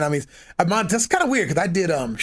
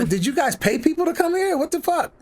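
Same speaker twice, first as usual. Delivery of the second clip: much higher, amazed inner voice; can't believe the crowd showed up; thinking aloud, shocked at the huge Cheyenne crowd; stunned disbelief; 12 semitones higher than usual. Retold or imitated. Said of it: "I was thinking".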